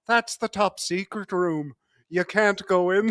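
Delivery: mock Irish guard's voice; Irish accent. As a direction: imitate an Irishman with a put-on accent. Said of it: "putting on the best Irish accent".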